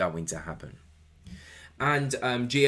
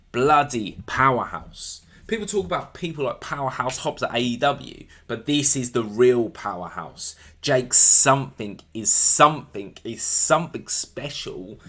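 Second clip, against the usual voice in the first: excited hype; 4 semitones higher, 8 dB louder than usual. Real, not acted. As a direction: talk him up like a ringside fan. Hyping a wrestler he loves.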